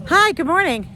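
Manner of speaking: high, projected real hello; calling out greetings. Real, not acted. Vlogger to someone over there, calling out greetings. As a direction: call across the yard, high.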